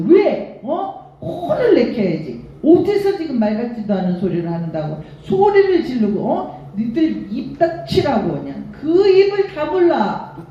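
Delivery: mock indignant telling-off, pitch jumping up; heated, mildly exasperated rebuke; retold scolding. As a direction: re-enact giving someone a piece of your mind. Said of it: "제가 막 그랬어요".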